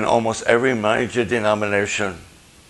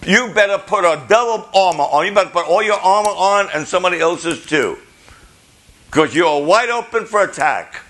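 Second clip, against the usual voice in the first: retold warning; 7 semitones higher, 3 dB louder than usual. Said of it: "they said".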